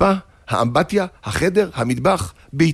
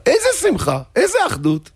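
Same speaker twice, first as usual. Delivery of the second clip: joyful exclamation; 11 semitones higher than usual. A narrator's reading. Rabbi exclaims joy of reconciliation.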